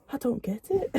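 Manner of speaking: high, laughing "I don't get it"; laughing confusion. Retold or imitated. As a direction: lose it halfway through the line. The confused guy from the video.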